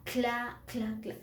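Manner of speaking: "cla" as one blended syllable, repeated; sounding out "cla". Shown as a demonstration. Teacher shows how C and L sound, sounding out "cla". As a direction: say "cla" slowly, C and L run together. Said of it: "Y suena".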